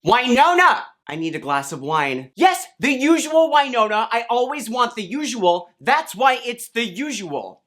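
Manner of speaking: high, hammed-up sitcom voices; hammed-up high mock exchange; comic bar skit. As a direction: play it up like a barfly.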